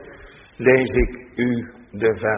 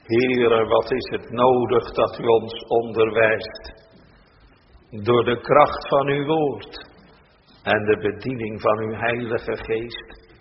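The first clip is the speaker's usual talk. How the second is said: prayer. Acted. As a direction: pray humbly to God, unhurried. Minister prays aloud.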